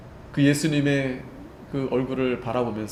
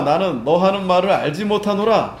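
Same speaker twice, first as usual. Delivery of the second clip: louder, higher protest, falling hard at the end; Peter's loud denial; 4 semitones higher, 6 dB louder than usual. Acted. Peter denying Jesus to the servant, loud protest. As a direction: deny it outright, and mean it.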